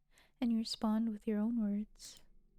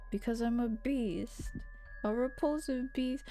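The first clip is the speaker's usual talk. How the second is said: mock sad boy; 3 semitones higher than usual. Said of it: "he really sounds like a really sad incel boy".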